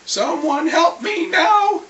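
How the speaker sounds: slow, then a slow loud shout for help; calling for help. Retold or imitated. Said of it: "I'm sitting there going".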